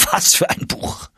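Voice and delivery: high, thrilled cry of delight; excited exclamation. Acted. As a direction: cry out in rapture over the book. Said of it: "rief er".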